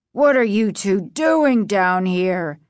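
a touch of fatherly anger, deliberate; father scolds kids found in the basement; angry cry. Acted. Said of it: "he cried".

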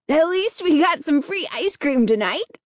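high, lively exclamation; exclaiming. A narrator's reading. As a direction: throw it out with excited cheer. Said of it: "Alan exclaimed".

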